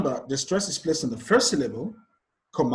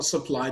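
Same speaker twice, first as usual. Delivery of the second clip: supply stressed as sup-PLY; stress on second syllable. Shown as a demonstration. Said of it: "on the second syllable".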